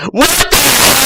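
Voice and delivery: very high, startled squeal; hammed-up shocked squeak; squeaky shock. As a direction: squeak it out in total disbelief. Retake, higher.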